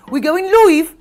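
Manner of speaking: hammed-up countdown, slow; imitating Bobby Davro. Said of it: "Bobby Davro today, who was going".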